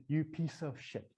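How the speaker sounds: slow, measured self-scolding; retold guilty scolding, held back in volume; berating inner voice. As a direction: berate yourself, spacing out each accusation. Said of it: "I was berated".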